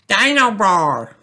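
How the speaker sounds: put-on high, slow, thrilled toddler voice; excitedly. A narrator's reading. Little boy meets his new toy, excited and high. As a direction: say the toy's name in delight. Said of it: "says George excitedly".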